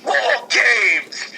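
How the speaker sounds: mock hype; excited announcement. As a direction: say it like a big reveal. Excited fantasy booking.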